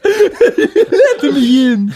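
creepy voice. Acted. Spooky bit before intro.

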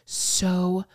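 drawn-out exasperation, rising on the last word; exasperated. Retold or imitated. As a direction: stretch it out in disgust. Venting about the baby-talking woman.

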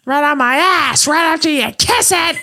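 mock tough-guy retort. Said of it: "That's what he says it".

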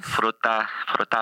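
put-on playful Italian accent, rolling the r. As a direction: stretch fruta the Italian way. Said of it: "How did you get such an Italian accent?".

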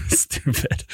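a breathy whispered repeat after a laugh; whispered aside. Real, not acted. Host whispering the listener's word back after laughing.

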